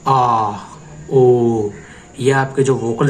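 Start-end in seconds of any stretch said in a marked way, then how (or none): 0.1-0.5 long sustained aah; vocal stretch aah. Shown as a demonstration. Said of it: "example के लिए". 1.1-1.7 long sustained ooh; vocal stretch ooh. Shown as a demonstration. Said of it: "example के लिए".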